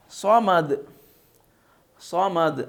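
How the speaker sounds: "صمد" drawn as "sawmad", heavy s; tongue back on the s of "صمد"; thick saad. Shown as a demonstration. Teacher leading students to read, thickened saad. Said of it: "کیا پڑھیں گے؟".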